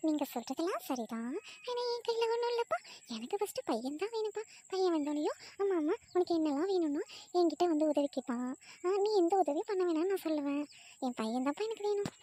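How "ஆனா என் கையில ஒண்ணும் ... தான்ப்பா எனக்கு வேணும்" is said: put-on high, light young wife's voice. Wife answering her husband, in a high girlish voice. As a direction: lift into a sweet, girlish wife.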